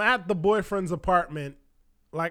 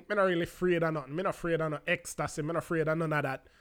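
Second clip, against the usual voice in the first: put-on Jamaican accent; 3 semitones lower, 5 dB quieter, much faster than usual. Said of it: "with the whole Jamaican thing".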